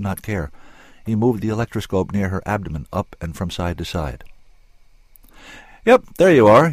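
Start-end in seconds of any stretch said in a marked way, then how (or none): 5.8-6.7 louder, higher, pleased find; cheerful. A narrator's reading. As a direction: chirp it out like a happy discovery. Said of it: "he said cheerfully".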